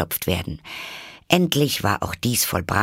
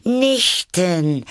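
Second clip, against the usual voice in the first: high, loud, delighted exclamation; calling out; 11 semitones higher, 5 dB louder than usual. A narrator's reading. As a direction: cry it out like a curious child. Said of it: "rief Alice".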